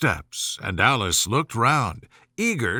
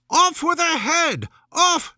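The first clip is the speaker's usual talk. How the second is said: very high, loud shriek; furious scream; 14 semitones higher, 3 dB louder than usual. A narrator's reading. Queen raging at Alice, screaming. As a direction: scream it like a wild beast.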